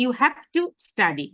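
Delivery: slow, firm stress on "have to study"; stressed words. Shown as a demonstration. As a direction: press each word of "have to study", slowly. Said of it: "আমি কিন্তু এখানে জোর দিছি". ("have to study" ধীরে জোর দিয়ে বলা)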